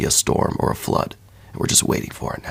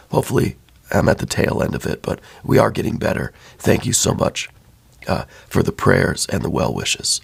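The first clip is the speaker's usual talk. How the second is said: losing voice from laryngitis, hoarse and thin; hoarse and worn out with bronchitis. Real, not acted. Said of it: "you may have noticed I'm losing my voice".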